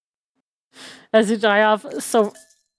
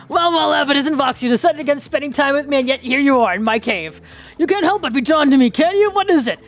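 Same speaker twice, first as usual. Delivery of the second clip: smug flirt voice. Acted. Trapper character voiced, flirting.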